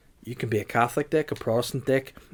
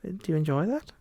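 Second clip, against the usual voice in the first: put-on camp it up as the old Campbellian; 9 semitones higher, 3 dB quieter than usual. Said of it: "the old Campbellian voice".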